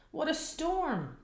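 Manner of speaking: high chirpy bird voice; twittering wren. A narrator's reading. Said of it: "twitters wren".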